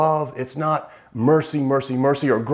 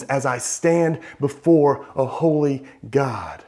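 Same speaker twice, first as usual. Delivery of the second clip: slow, drawn-out lament; crying out in dismay; slower than usual. Retold or imitated. Preacher voicing Isaiah before God, slow mild lament. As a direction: stretch the words like a ruined man. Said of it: "he cries out".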